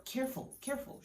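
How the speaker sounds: hushed motherly caution; careful mother. A narrator's reading. Mother warning daughter off the glass shards, hushed and careful. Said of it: "her mother".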